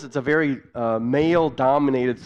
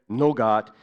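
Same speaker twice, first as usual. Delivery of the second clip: patient in Pidgin. Retold or imitated. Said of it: "share with you a little bit of what that was like".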